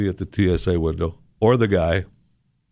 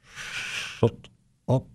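softer, almost whispered shut up; hushed warning; 2 semitones higher, 8 dB quieter than usual. Retold or imitated. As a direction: hiss it under your breath to a friend. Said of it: "my friend squeezing my arm going".

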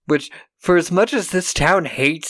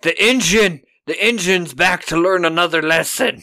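mock gleeful shout; 3 semitones higher than usual. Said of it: "they're like".

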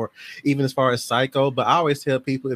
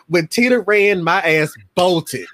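animated storytelling; 5 semitones higher, 5 dB louder, slower than usual. Real, not acted. Climax of scary childhood story.

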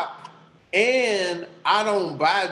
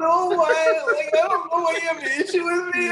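Buck Wild; 9 semitones higher than usual. Acted. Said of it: "where did your accent go".

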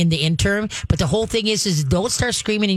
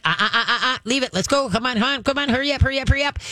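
higher, rapid upbeat chatter to the dog; chatterbox; 6 semitones higher, faster than usual. Shown as a demonstration. Trainer chattering to move the dog past a trigger, higher and upbeat. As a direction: keep up a bright stream of chatter. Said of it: "become the chatterbox".

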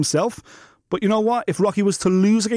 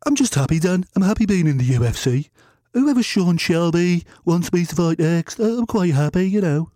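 playing Rocky; 3 semitones lower than usual. Fighter dodging the question, meek and a bit lower.

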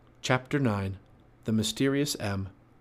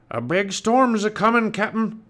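high, loud pirate deckhand; Pinky the pirate; 10 semitones higher, 6 dB louder, slower than usual. A narrator's reading. Pirate warning his captain of a storm, loud and high. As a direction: sound the alarm in pirate talk. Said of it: "said Pinky".

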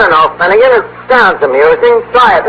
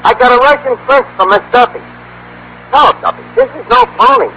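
higher-pitched, eager phone report; excited good news; 6 semitones higher than usual. Acted. Archie telling Duffy about the Russian prince, excited. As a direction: break the big news eagerly. Phoning boss with terrific news.

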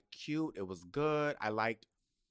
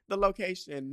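higher, louder, big announcer read; dramatic announcer intro; 8 semitones higher, 7 dB louder than usual. Shown as a demonstration. Podcast host restarting the intro as a dramatic announcer. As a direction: announce it like a show opening. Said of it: "no, wait, what am I talking about?".

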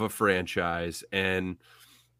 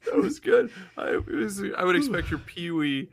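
high squeaky voice; 12 semitones higher than usual. Acted. Echoing the impression, laughing.

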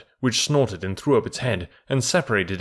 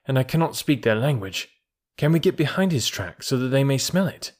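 put-on a touch higher, scornful boy hunter; mock the tiger's greed, then plot briskly; light boyish jungle voice; lightly voiced young Mowgli; 3 semitones higher than usual. Mowgli plots against the tiger.

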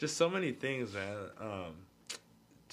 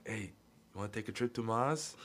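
light mock Austrian accent; Arnold Schwarzenegger. Friend phones friend with smoking code, lightly mimicked Austrian accent. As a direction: slip into a mild Austrian accent. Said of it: "we would say it in Arnold's accent".

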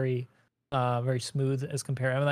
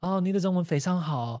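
mock polite local; 4 semitones higher, 3 dB louder than usual. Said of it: "It's like".

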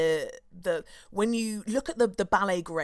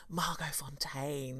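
breathy, slow hushed reverence; softly, slowly savouring a glamorous name; awed whisper; 5 semitones lower, 9 dB quieter, slower than usual. Acted. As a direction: whisper the name like it's precious.

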